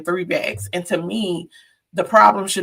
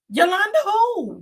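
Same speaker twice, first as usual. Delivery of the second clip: Yolanda in a high-pitched Hispanic accent; 12 semitones higher than usual. Shown as a demonstration. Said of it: "put that Hispanic accent on Yolanda".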